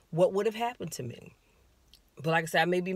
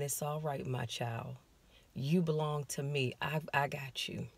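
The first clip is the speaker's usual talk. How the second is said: tender reassurance; 2 semitones lower, 5 dB quieter than usual. Retold or imitated. God comforting the frightened mother, soft and tender. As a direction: hush her like a frightened child. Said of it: "God doesn't talk like that".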